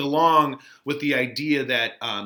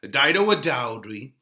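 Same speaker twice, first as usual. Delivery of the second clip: Mercutio teasing; 5 dB louder than usual. Acted. Mercutio greets Romeo with loud, mocking glee. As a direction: hail him across the street with glee.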